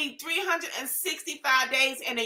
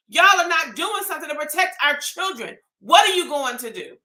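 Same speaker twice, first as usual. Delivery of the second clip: angry rant; 2 semitones higher than usual. Real, not acted. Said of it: "That's my rant".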